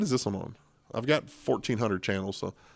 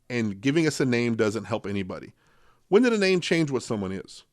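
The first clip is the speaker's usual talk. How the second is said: dramatic quote reading; 2 semitones higher than usual. Acted. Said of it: "Here's a quote here".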